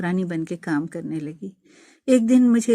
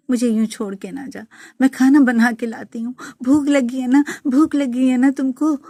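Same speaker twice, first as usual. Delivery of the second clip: loud, much higher keening plea; anguished wailing; 6 semitones higher, 7 dB louder than usual. Retold or imitated. Widow keening over her dead husband, pleading loudly. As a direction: cry out to him to come back. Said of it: "میں چیخنے چلانے لگی".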